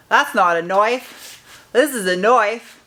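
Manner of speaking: slow mock Australian accent, Crocodile Dundee style; a hammed-up Australian knife line, slow. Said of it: "I didn't mean to butcher your accent".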